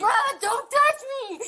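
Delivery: tearful plea; upset, near tears; crying. Real, not acted. Woman held by officers, crying.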